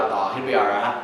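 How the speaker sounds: low, easygoing brush-off; laid-back attitude. Acted. Husband answering his worried wife, laid-back. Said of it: "men typically have an attitude like".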